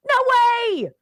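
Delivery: high, loud burst of disbelief; indignant outcry. Real, not acted. Host rejecting the idea, with a loud outraged cry.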